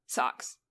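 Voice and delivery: "socks" pronounced as if spelt saux; attempted American "socks" with an AW-like vowel. Shown as a demonstration. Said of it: "S A U X".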